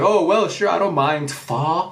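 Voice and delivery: high, laughing put-on voice; hammed-up whipped cream guy, giggling through it; silly high sing-song impression; mock Brother Opera. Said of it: "And he's like".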